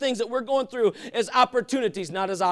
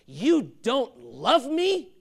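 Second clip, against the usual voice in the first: slow incredulous question; 3 semitones higher, much slower than usual. Retold or imitated. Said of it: "come back later and say".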